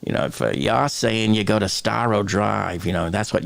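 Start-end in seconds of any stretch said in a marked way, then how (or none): 0.5-2.8 lightly imitated Boston accent, dropped r's. Shown as a demonstration. Showing viewers how his family talks, light Boston accent. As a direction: give a sample of a mild Boston accent. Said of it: "has a little bit of it".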